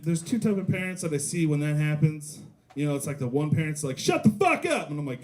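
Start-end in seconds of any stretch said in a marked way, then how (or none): 4.0-4.9 put-on screamed high and loud at the kid; yelling parent. Parent screaming at tantrum kid, high yell.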